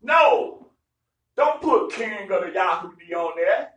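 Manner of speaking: loud, insistent Pharisee objection; slowing down on the last line; pushing back hard on Pilate; retold protest. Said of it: "Pharisee says".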